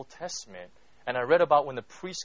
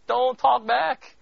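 slow, higher, louder don't talk back; slow raised stern warning; 9 semitones higher, 7 dB louder, much slower than usual. Real, not acted. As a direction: drive the warning home. Warning to students.

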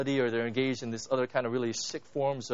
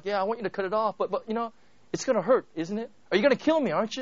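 higher, anxious pleading voice; fearful pleading man; 5 semitones higher, faster than usual. Retold or imitated. Man with lizard anxiously questioning the angel, afraid. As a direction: beg nervously, rising in fear. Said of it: "the guy's like".

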